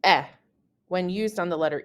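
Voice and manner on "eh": "eh" as the French è vowel; short open "eh", as for e with grave accent; è sound. Shown as a demonstration. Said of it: "It sounds like".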